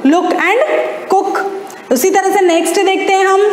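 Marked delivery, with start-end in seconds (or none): 0.1-1.4 very slow, stretching बुक, लुक and कुक; slow rhyme demo. Shown as a demonstration. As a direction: draw each word out so the rhyme is clear. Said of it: "same sound सुनाई दे रहा है". (बहुत धीमे, खींचकर बुक, लुक और कुक बोलना)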